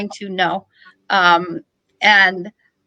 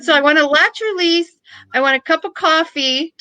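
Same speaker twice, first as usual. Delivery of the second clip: laughing; 7 semitones higher than usual. Real, not acted. Laughing while listing demands.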